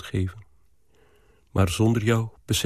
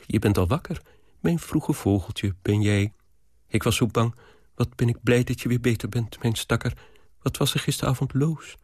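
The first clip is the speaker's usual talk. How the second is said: put-on mumbling old nanny. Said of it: "zij begint meteen te prevelen".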